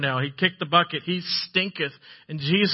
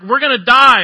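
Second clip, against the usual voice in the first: much higher and louder panicked wail; panicked cry; 8 semitones higher, 13 dB louder than usual. Retold or imitated. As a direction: cry out as if the boat is sinking. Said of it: "the disciples are like".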